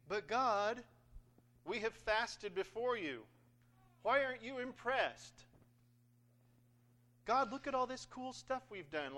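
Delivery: high, loud protest; mock complaining. Israelites demanding God notice their fasting, hammed-up complaint. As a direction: complain like someone owed credit. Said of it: "the Israelites are complaining".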